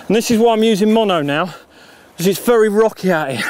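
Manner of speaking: panting, out of breath from running; words pushed out between breaths. Real, not acted. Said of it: "sorry, I'm out of breath".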